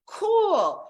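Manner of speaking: high, loud drawn-out cool; mock delight. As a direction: act out being thrilled, pitched high. Acting out delight at trousers.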